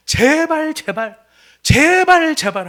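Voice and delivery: loud, high, begging cries of 제발; pleading father. Acted. Father begging his older son to come in, loud pleading. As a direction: beg the son again and again, rising to a cry. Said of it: "하고 사정하는 것이".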